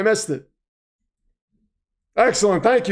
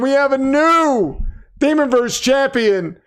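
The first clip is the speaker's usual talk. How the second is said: raised pitch with NEW stretched out; champion announcement; 4 semitones higher than usual. Pretend. Host declaring a new title holder, ring-announcer call.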